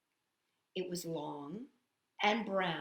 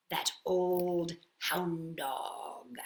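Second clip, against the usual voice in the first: whispered grumble; 3 semitones lower, much slower than usual. Acted. Muttering about Henry.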